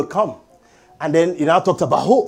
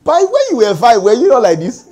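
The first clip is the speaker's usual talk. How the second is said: higher, indignant retold scolding; angry parent; 6 semitones higher than usual. Preacher recalls being angry at his children, retold angry scolding. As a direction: act out telling off over a five-year-old. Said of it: "I'm, I'm angry".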